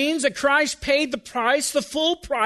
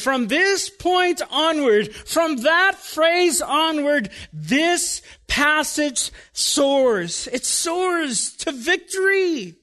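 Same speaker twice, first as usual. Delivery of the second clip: soaring preaching; 4 semitones higher, much slower than usual. Acted. Preacher building to triumph.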